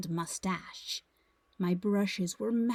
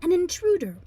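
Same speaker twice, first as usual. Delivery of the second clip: spot an intruder aboard, alarmed; alarmed discovery; 7 semitones higher than usual. A narrator's reading. Child captain spots snake intruder.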